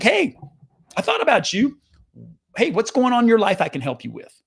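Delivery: bright-pitched, caring phone greeting; friendly check-in. Retold or imitated. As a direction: reach out to an old client, voice lifted. Acts a friendly check-in call.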